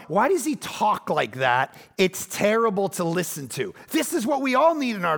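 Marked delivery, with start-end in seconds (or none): 0.1-3.7 a put-on disapproving commenter; mock critic voice. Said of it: "I just go".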